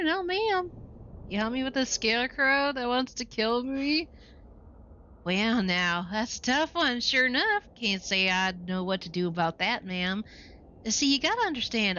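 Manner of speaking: high Western cowboy twang; old-timer cowboy lamenting the West. Acted. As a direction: play the weary old cowboy. Cowboy shopkeeper talks.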